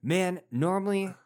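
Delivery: mock calm advice. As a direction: pitch it like friendly therapy. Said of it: "he's like".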